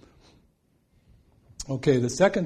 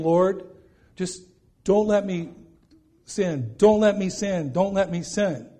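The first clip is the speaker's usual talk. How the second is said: retold pleading prayer; 5 semitones higher, 3 dB louder than usual. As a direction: imitate a repeated, higher-pitched plea. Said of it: "I kept praying".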